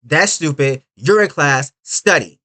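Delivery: lightly voiced stern lecturer; a hint of scolding a student; strict quote. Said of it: "she said".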